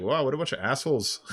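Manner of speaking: a laughing jab shouted after them; laughing mock shout. Cop mocks them leaving.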